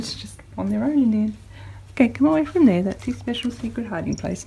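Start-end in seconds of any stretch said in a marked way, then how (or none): 1.9-2.8 louder, higher call to the dog. Real, not acted. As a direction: call her off sharply. Calling dog away.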